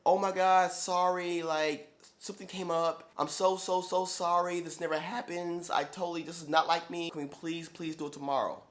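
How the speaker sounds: a lightly voiced flustered client; apologetic client voice. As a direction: play her fluttery and sorry. Texted apology voiced by flaky client.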